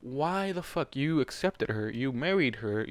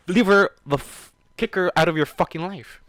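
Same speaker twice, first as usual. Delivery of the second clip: louder, higher angry urging; frustrated shout; 5 semitones higher, 5 dB louder than usual. Real, not acted. Reader yelling at Warden to dump her. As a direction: yell at him to get rid of her.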